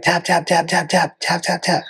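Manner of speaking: high, rapid-fire pleading; mock frantic tapping out. Guy caught in Jocko's arm bar begging out, mock panic. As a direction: imitate a trapped fighter begging for release.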